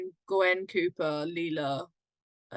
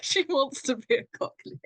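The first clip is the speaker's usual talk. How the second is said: higher-pitched mock Cockney accent; attempted Cockney; 5 semitones higher than usual. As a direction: put on a wannabe Cockney voice. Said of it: "An attempting Cockney".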